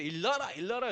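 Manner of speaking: mock Gyeongsang call waking the kids; light Gyeongsang "일 놔라" said to her sons; 경상도 사투리 흉내; Gyeongsang dialect. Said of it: "경상도 사투리".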